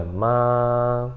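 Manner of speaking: "ma" stretched on one note as if singing; exaggeratedly long, level "ma"; first tone, sustained. Shown as a demonstration. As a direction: maintain the pitch all through "ma". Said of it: "como se estivesse cantando".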